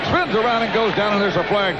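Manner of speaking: quick lift as the runner spins; excited play-by-play. Real, not acted. Announcer calls the runner going down, excited play-by-play. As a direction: voice jumps up on the tackle. Live call of the run.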